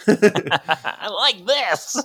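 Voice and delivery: high, slow giggly delight; laughing. Retold or imitated. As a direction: giggle it out dreamily. Dazed quote, laughing.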